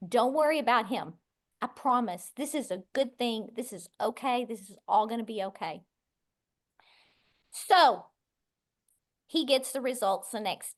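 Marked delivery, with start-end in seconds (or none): 0.1-5.8 hushed comforting tone; soothing husband. Retold or imitated. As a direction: talk her down gently, like a husband comforting his wife. Husband calms crying wife.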